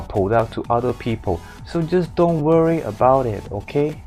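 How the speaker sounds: reassuring Hong Kong English, flat tone; calm the boss in a Hong Kong accent. Acted. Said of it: "all these words in Hong Kong accents".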